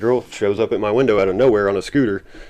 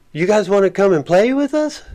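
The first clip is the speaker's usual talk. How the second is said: high, playful puppy-like voice, much higher; weird puppy tone; 11 semitones higher than usual. Retold or imitated. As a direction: sound like an eager cartoon puppy inviting you. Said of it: "puppy type tone".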